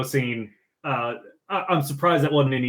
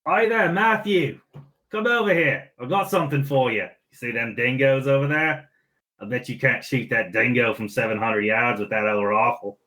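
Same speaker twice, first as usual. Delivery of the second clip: put-on Australian accent. Australian accent, goading Matthew about the dingo. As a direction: play an Australian taunting a shooter. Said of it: "Best Australian accent".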